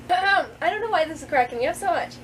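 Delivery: normal talking voice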